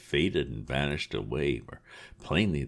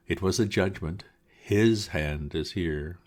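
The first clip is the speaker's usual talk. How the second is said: solemn minister; 4 semitones higher than usual. Acted. Minister pronounces over the corpse.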